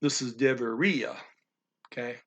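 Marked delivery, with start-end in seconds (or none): 0.3-1.2 "deveria" with I and A kept apart; teacher's model of "deveria", final i-a as two syllables; two separate syllables. Shown as a demonstration. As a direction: say "deveria" ending ree-ah, no merged vowel. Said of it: "that's two separate syllables".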